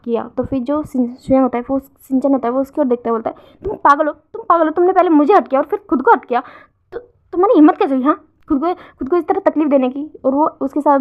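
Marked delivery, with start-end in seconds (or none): 3.6-10.2 angry scolding. Acted. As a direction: tear into him for hurting himself. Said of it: "अब झगड़ा करने लग जाता है".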